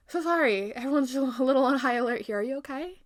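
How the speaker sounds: apologise, then check on them kindly; a touch of sweet concern; apologetic concern. Acted. Snow White apologises to the stranger.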